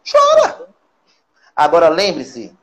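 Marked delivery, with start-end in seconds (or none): 0.1-0.7 high, loud cry of encouragement; shouted urging. Shown as a demonstration. Therapist urging the viewer to let the tears out, loud and high. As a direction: throw it out as a big command. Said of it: "Deu vontade de chorar?".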